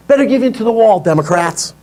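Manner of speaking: mock mobster menace, sweetly; a cheerful gangster's veiled threat; friendly threat.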